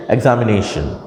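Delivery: एग्जामिनेशन with the voice moving on ने, then falling; pitch move on NE. Shown as a demonstration. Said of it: "हमारी pitch भी जो थी ना".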